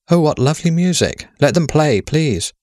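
thrilled by the music, begging to keep it; delighted. A narrator's reading.

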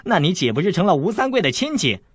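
breathy laugh then teasing question; teasing laugh at Fang Yi; laughing tease. A narrator's reading. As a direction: laugh and mock her. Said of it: "韦小宝笑道".

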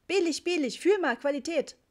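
very high, loud market cry; hawking seller. A narrator's reading. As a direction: tout your bargain insistently. Seller hawks carpets ever more insistently. (marktschreierisch, hoch und laut)

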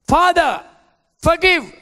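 loud, high anguished cry; crying out to the Father. Acted. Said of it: "Jesus cried out".

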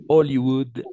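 Hollywood said "oliwoud", loud, no H; silent H, stressed. Shown as a demonstration. Teacher repeats Hollywood loudly for students, silent H. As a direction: punch Hollywood with the H dropped. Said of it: "La H es muda siempre".

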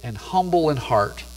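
slow, reverent reading of scripture. Acted. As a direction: let each word of the verse settle.

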